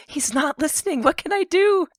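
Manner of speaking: high, panicked question; desperate. Acted. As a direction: ask in panic. Player asks desperately.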